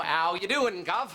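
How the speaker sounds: put-on a light Cockney accent; hint of a Cockney accent. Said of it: "practicing my Cockney accent".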